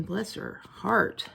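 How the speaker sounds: drawn-out, slow mock pity; slow, teasing bless her heart. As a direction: drag it out like a Southern aunt pitying you. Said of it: "some of you guys are thinking".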